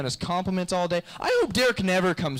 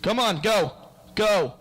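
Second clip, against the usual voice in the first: mock urgent rush; 5 semitones higher, 4 dB louder, slower than usual. Rushing to open the door.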